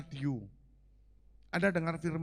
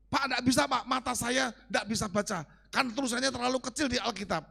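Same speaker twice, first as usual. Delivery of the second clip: excuse-making churchgoer; 7 semitones higher, 4 dB louder than usual. Retold or imitated. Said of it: "Baca enggak Anda".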